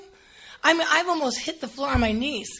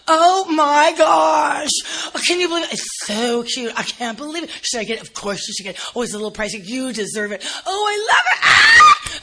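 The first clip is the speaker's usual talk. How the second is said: much higher, louder shrieking shopper rapture; gushing shopper; 3 semitones higher, 9 dB louder than usual. Retold or imitated. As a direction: squeal like a lady in love with a dress. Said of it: "You ever hear ladies like this".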